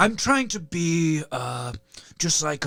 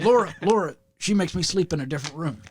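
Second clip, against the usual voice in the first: lightly voiced Texan president; George W. Bush. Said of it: "Now we're just doing George W. Bush".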